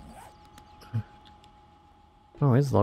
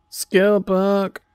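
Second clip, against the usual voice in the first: surprised gasp; 6 semitones higher, 5 dB louder than usual. Real, not acted. Gasps at loot.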